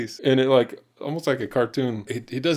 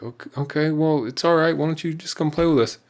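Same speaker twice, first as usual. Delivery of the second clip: higher, gently coaxing a sulking friend; patient coaxing; 6 semitones higher than usual. Retold or imitated. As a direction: coax him along patiently. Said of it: "I'm trying to be patient".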